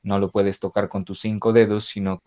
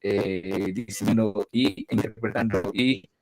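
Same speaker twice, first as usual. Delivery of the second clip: choppy, robotic internet audio; glitchy connection breaking up the voice; half robot voice. Real, not acted. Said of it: "sí suena robótico". (voz robótica entrecortada)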